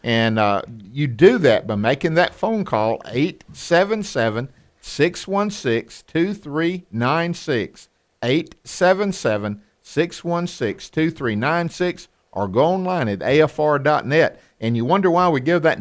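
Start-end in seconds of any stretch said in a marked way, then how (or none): 3.1-7.9 slow, every digit spaced out; slow phone number. Real, not acted. Radio host giving listeners the donation number slowly. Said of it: "They tell me to speak a little fa-, uh, slower". 8.2-12.1 slow digits. Real, not acted. Host repeating the donation number slowly for callers. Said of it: "They tell me to speak a little fa-, uh, slower".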